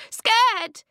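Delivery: loud, very high scared shriek; terrified child's outcry; frightened cry. A narrator's reading. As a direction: let fear burst out high and loud. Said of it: "she cried".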